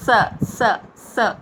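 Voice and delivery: "స" hissed at the teeth, separately; dental sa. Shown as a demonstration. Teacher shows the dental sound, isolated "స". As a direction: say each "స" against the teeth. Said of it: "దంతాలతో పలుకుతాం చూడండి ఒకసారి".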